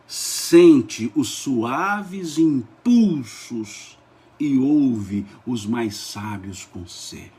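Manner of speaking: very slow declamation, words stretched out; leitura solene. Real, not acted. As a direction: savour every phrase reverently. Solemn scripture reading. (leitura solene, bem lenta e pausada)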